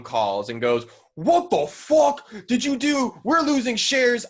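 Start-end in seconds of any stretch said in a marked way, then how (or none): 1.1-4.3 mock outrage. Viacom boss yelling at Nickelodeon.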